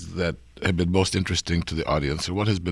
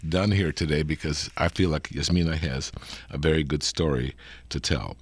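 hoarse from a cold; slightly gravelly sick voice. Real, not acted. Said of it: "you might hear a little gravelly voice".

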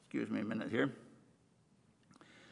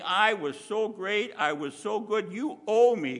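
boastful; 4 semitones higher, 4 dB louder than usual. Retold or imitated. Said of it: "He's not saying".

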